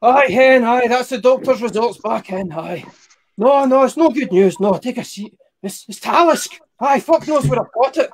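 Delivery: a doctor breaking bad news by phone, hammed up; Scottish doctor. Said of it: "You could imagine the phone call".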